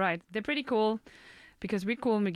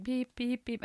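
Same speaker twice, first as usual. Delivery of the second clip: tram beep; 4 semitones higher, slower than usual. Retold or imitated. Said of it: "there's this, like".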